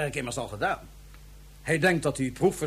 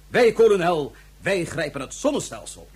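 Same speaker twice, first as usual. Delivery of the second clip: triumphant boast; 5 dB louder than usual. Acted. Villain boasting to colonel.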